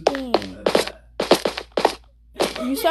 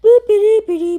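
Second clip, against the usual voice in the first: silly high boops; 10 semitones higher, 10 dB louder than usual. Real, not acted. Silly sound effects.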